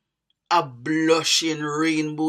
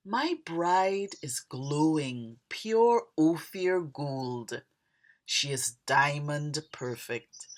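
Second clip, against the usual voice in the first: poem reading. Acted. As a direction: recite your own poem, pausing between images. Reads own poem aloud.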